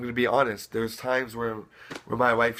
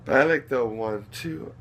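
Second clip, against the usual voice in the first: softer, lower counting to a rocking beat; hushed one two; 4 semitones lower, 5 dB quieter than usual. Shown as a demonstration. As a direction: count gently like rocking a baby. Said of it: "I add a little double time".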